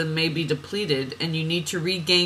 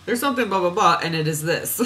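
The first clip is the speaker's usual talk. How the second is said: mock biblical; faster than usual. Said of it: "we start talking like this".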